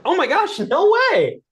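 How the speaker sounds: high, loud, gushing oh my gosh; mock amazement. Coach replaying his fake surprise to the seller. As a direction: act stunned the seller was just looking. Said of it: "And I'm like".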